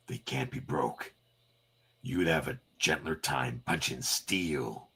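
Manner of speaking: calm menace; cool gruff taunt. Acted.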